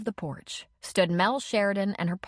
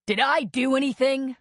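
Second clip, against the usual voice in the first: hotly; 7 semitones higher, 4 dB louder than usual. A narrator's reading. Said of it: "Dylan asked hotly".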